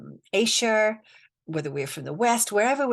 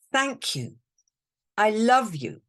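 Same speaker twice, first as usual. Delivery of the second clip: sincere mantra; 4 semitones higher than usual. Shown as a demonstration. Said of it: "That's the first statement".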